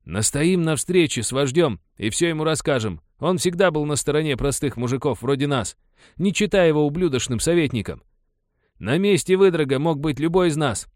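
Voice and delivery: worked-up miner calling for justice; rallying miner. A narrator's reading. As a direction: push the men to act. Miner urges meeting chief.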